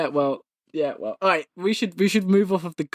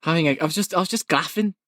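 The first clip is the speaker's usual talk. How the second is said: put-on putting on a light northern English accent; faster than usual. Host trying out a silly word, northern accent. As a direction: say it with a northern lilt. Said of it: "put a northern accent on that".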